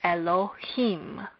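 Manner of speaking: Elohim with the stress on the final him; stress on last syllable. Shown as a demonstration. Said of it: "we would say".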